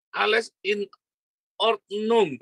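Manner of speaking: German phrase. Retold or imitated. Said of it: "kata orang Jerman".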